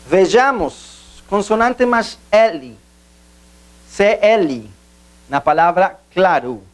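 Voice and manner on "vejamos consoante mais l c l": slow, deliberate. Shown as a demonstration. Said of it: "teaching emphasis".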